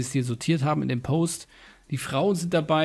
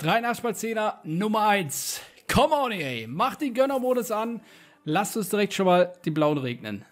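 hyped-up higher pack-opening cheer; rowdy party animal; 6 semitones higher than usual. Real, not acted. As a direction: pump up the crowd before the pack. Hyping up the next pack opening. (aufgedrehter Partylöwe)

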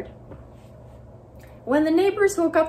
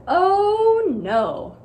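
higher, louder dismayed cry; 8 semitones higher, 6 dB louder than usual. Acted. Mister Plumbean sees paint on his roof, dismayed. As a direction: gasp it in dismay. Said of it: "Mister Plumbean said".

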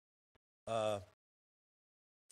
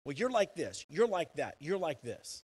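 mock judging voice; 4 semitones higher, 7 dB louder than usual. Mocking people who judge others.

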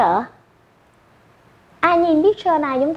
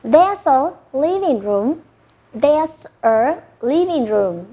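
slow model phrase; slower than usual. Shown as a demonstration. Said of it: "So how do you say?".

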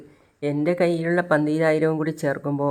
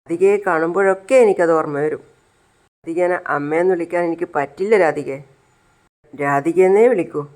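angry refusal; 5 dB louder than usual. Acted. Child angrily refuses to say amma.

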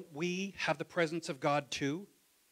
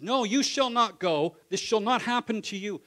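rebuke; 6 semitones higher, 9 dB louder than usual. Retold or imitated. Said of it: "Pete rebukes them".

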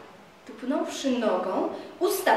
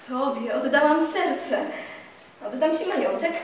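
usual speaking voice

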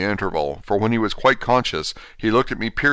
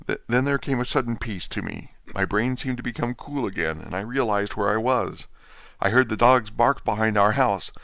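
lightly voiced feeble patient, dazed; a hint of a broken man just waking from a dream; faint, bewildered invalid, lightly voiced; weak dying Renfield; 3 semitones higher than usual. Renfield recounts his ordeal.

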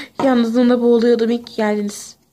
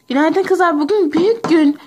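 excited; 6 semitones higher than usual. Acted. Excited announcement to friends.

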